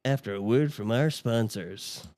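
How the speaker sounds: slow, lightly put-on announcer read; movie phone voice. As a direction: draw it out like an announcer. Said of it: "movie phone voices".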